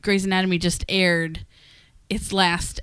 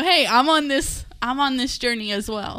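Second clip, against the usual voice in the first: pleading hey; 4 semitones higher than usual. Retold or imitated. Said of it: "I need to say".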